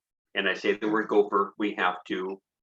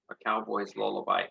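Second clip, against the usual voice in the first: softer title; 5 dB quieter than usual. Shown as a demonstration.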